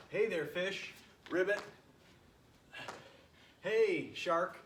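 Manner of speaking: lightly voiced frog, a little high; a hint of a frog calling out. Frog greeting fish as it swims, lightly voiced. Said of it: "is a frog that swims".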